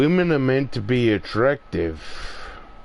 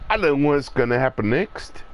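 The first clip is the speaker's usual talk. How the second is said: rattled off quickly, plain voice; faster than usual. Shown as a demonstration. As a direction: toss the line off fast. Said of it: "repeated line".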